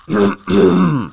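throat-clearing as a gentle reprimand; discreet warning cough. A narrator's reading. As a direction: clear the throat pointedly to call for order. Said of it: "pour rappeler discrètement son ami".

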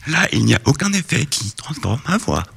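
speaking on the in-breath; talking while inhaling. Shown as a demonstration. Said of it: "en inspirant".

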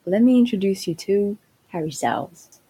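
put-on British English introduction; playful British English announcement; British accent. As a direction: present the star in a mock British accent. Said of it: "mon magnifique accent ... parler d'un British".

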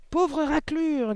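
very high, loud, stretched-out words; yelping insult. A narrator's reading. Headmistress insulting the confused pupil, high yelp. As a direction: yelp it slowly in outrage. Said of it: "glapit mademoiselle Le Gourdin".

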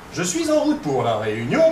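"Je suis en route pour la réunion" with EN stressed and a rising end; altered intonation. Shown as a demonstration. Researcher mimicking a random computer variation, stress on "en" and a final rise. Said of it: "tout ce qu'on veut, quoi".

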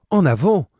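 loud, rising rallying call; urgent call. A narrator's reading. Penellan urging the men on toward the cries, loud call. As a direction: spur the sailors forward, loud.

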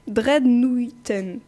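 slow, effortful attempt at an English accent on "dreadnoughten"; awkward English accent on a single word. Shown as a demonstration. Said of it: "je sais pas mon bon accent anglais".

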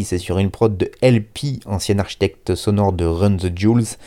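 normal talking voice

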